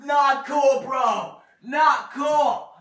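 shouted complaint; loud protest. Real, not acted. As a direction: yell it in protest. Complaining loudly after being shot.

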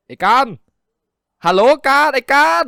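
loud, high call right by his ear; calling out a spacey friend, loud and high; shouting in his ear. A narrator's reading. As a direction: yell his friend's name to startle him. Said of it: "ตะโกนแหกปากเสียงดังอยู่ข้างๆหู".

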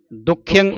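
ਦੁਖਿਅੰ with a tight doubled kh; tightened pronunciation. Shown as a demonstration. Teacher showing student the word, ਦੁਖਿਅੰ said tightly. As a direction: press firmly into the middle of ਦੁਖਿਅੰ. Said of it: "ਕੱਸ ਕੇ ਬੋਲਣਾ ਇਸ ਨੂੰ".

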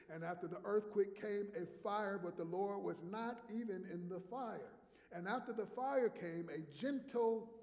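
building, loud scripture reading; khotbah membaca ayat. Real, not acted.

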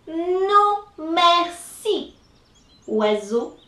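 lightly voiced rabbit declining; polite refusal. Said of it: "so he says".

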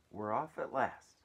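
loud, drawn-out triumphant call; shouting. A narrator's reading. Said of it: "someone was shouting".

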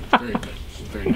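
slow, soft, gloating villain; evil overlord voice. Shown as a demonstration. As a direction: savor it like a scheming overlord. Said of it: "to get the voice down".

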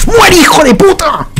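slow, high, dragged-out yell; battle cry. Real, not acted. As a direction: scream it at the enemy, drawn out. Going for the kill.

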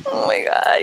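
high, thin happy cry; overcome with tears. Real, not acted. Hugging a dear friend on their birthday, overcome with tears. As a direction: squeak it out through tears. Crying during the hug.

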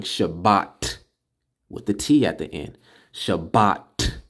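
slow, stressing the T at the end of Shabbat; teacher correcting a common mistake; emphasis on Shabbat. Shown as a demonstration. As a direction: insist on the final T of Shabbat. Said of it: "I'm putting emphasis on this".

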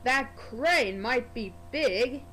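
slow, lightly voiced haughty engine; a hint of a proud big engine sniffing; sniffy Gordon. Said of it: "Gordon sniffed".

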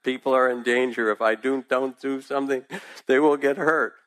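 alarmed self-talk rising in pitch; urgent inner voice. A narrator's reading. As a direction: urge yourself to act. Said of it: "I said to myself".

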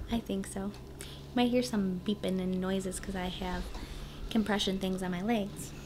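tired, weak voice after surgery. Real, not acted. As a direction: speak weakly, worn out from surgery. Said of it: "she had major surgery".

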